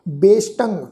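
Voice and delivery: ਬੇਸ਼ਟੰ ending in a nasal ੰ sound. Shown as a demonstration. Teacher showing the sangat the tippi, nasal ending. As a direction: close ਬੇਸ਼ਟੰ on a nasal hum. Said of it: "ਟਿੱਪੀ ਦੀ ਮਾਤਰਾ ਦਾ ਨਾਸਿਕ ਉਚਾਰਨ".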